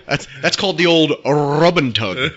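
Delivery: put-on old rub and tug with a rolled trilled r. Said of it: "I don't know why I rolled my R on that".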